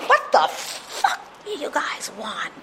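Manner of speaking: slow, drawn-out irritated dad voice; imitating angry dad. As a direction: answer the door as a fed-up father. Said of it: "this is how my dad would answer the door".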